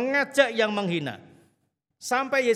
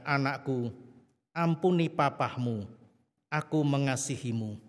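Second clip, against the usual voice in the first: tender comfort; 5 semitones lower than usual. Retold or imitated. Jesus embraces the girl. (lembut dan menenangkan, pelan dan rendah)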